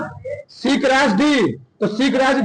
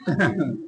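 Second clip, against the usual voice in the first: low, soft chuckle; short quiet laugh to oneself; brief low wordless chuckle; 10 semitones lower, 6 dB quieter than usual. Real, not acted. Laughs after correcting the students.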